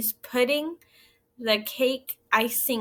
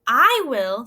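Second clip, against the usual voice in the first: eager cat; 7 dB louder than usual. Acted. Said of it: "said the cat".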